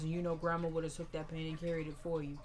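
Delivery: imitating a grandmother's soft goodbye; tender grief. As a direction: speak gently to the dead grandson. Grandmother grieving over casket.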